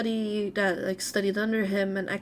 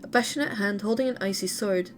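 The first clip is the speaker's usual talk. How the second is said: lively read-aloud intonation. A narrator's reading. Streamer reading a character's story to viewers, read-aloud narration. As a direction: read game lore out in phrases.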